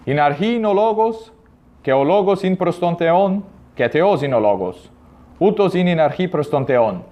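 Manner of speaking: modern Greek reading, "archi" with an i ending; Byzantine Greek. Shown as a demonstration. Teacher reads John in modern Greek pronunciation. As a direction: Greek read as in the modern language. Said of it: "primeiro com a pronúncia mais moderna".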